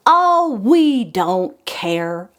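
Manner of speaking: slow, shrugging don't-care; drawn-out careless voice; carefree pumpkin. Acted. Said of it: "The third one said".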